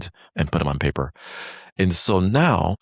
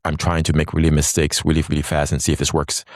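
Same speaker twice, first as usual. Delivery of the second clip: rushing on purpose; faster than usual. Shown as a demonstration. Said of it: "if you go really fast".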